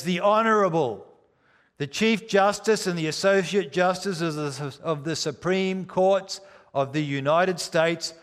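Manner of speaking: American court marshal calling the court to order; mock American marshal's cry, oyez; American accent. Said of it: "with an American accent".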